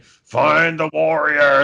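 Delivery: slow, drawn-out mock camera yell. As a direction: stretch it out like a wild wrestling promo. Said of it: "He was just yelling at the camera".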